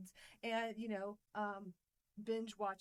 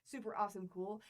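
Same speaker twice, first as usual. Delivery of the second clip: hyped up. Shown as a demonstration. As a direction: sell it like an excited hype line. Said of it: "look at that description".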